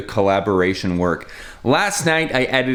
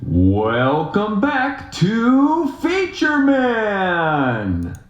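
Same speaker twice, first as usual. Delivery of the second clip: very slow, drawn-out higher announcer call; 9 semitones higher, much slower than usual. Shown as a demonstration. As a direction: stretch every syllable like a host. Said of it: "Okay, I like that one".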